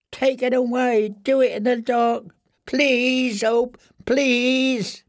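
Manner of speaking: thin, very high prisoner's voice; terrified pleading. Acted. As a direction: beg desperately to be spared, pitched high. Blinded prisoner begs his visitors.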